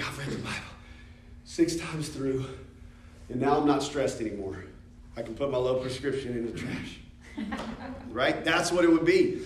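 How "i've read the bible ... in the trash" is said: relieved joy. Retold or imitated. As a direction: sound freed and unburdened, half laughing. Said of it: "You'd have been like".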